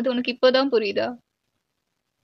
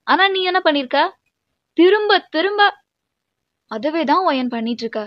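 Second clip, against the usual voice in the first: raised voice, insistent reproach; exasperated scolding; 5 dB louder than usual. Acted. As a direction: pile up the reproaches, building in force. Scolding partner over spoiled anniversary. (ஆதங்கத்துடன் திட்டுவது)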